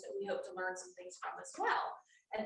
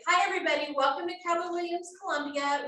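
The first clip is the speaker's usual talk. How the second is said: narrator voice; 6 semitones higher, 4 dB louder than usual. Acted. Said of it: "the narrator voice".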